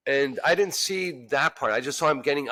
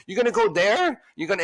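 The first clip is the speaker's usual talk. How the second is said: higher, louder mock taunt; lightly imitated angry woman; 7 semitones higher, 3 dB louder than usual. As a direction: goad the boyfriend. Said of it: "she goes".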